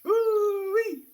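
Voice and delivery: a sudden high, loud whoop. Real, not acted. Streamer whooping after a hit, high and loud. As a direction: let out a high yelp of delight.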